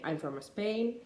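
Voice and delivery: "Spain" with a slipped-in vowel, like "Espain"; student's version, lightly Spanish accent. Shown as a demonstration. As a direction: imitate the learner adding an E before "Spain". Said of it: "they'd say".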